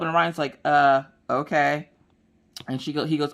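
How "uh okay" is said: put-on bored kid. Son Orion's unimpressed reply.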